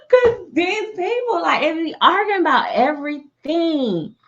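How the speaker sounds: high cracking laugh into slow words; real laughter cracking through; crying laughter. Real, not acted. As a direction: laugh till the voice breaks. Laughing breaking into cries.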